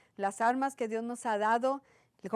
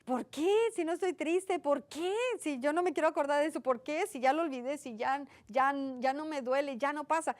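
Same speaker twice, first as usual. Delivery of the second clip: higher-pitched mock weeping complaint; retold tearful lament; 5 semitones higher than usual. Woman asking herself why she cries over the laundry, imitated wailing. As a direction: act out plaintive questioning through imagined tears. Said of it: "llore y llore".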